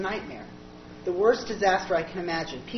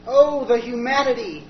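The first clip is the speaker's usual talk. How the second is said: slow anguished wail; Hindenburg survivor cry; 3 semitones higher, 7 dB louder than usual. Acted. The speaker in charred 1930s clothes, anguished. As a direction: cry out from the burning wreck. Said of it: "disguised, charred and smoking".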